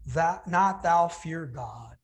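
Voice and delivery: slow, solemn scripture reading; King James reading. Shown as a demonstration. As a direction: read the old words slowly and gravely. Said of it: "the other answering rebuked him".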